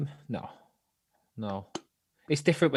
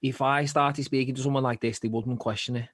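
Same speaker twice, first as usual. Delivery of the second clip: Scouse accent attempt; 3 dB louder than usual. Shown as a demonstration. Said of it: "that was meant to be my Scouse accent".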